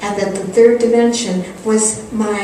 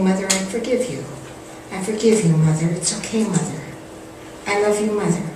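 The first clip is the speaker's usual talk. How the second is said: tender forgiveness; 5 dB quieter, faster than usual. Retold or imitated. Washing mother's feet, forgiving.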